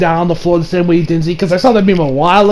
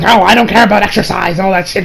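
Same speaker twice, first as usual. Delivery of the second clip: mock Champa rant. Voicing Champa's complaint.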